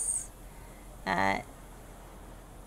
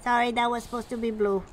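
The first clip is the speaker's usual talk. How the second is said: gnome mechanic; 2 semitones higher, 4 dB louder, faster than usual. Acted. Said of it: "he's like".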